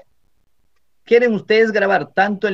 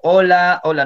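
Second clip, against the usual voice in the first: louder test call into the mic; loud hola to show the mic ignores it; demo shout; 3 semitones higher, 4 dB louder than usual. Shown as a demonstration. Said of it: "aunque grito".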